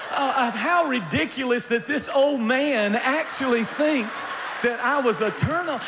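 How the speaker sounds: normal talking voice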